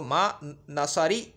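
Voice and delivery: "नसरी" ending in -ee; slow "नसरी", wrong -ee ending. Shown as a demonstration. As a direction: say "नसरी" slowly with the final vowel turned to -ee. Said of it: "मा नसरू नहीं करे".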